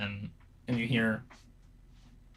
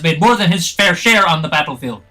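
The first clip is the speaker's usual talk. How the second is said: loud, much higher scolding; furious rebuke; 9 semitones higher, 16 dB louder than usual. Acted. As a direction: tear into the other captain. Samwern furious in argument.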